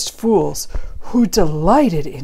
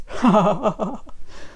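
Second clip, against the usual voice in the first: short run of wobbling giggles; soft, quick chuckle at a silly word; 2 semitones higher, 5 dB quieter than usual. Acted. Reader to listener, tickled by the word butt, giggling.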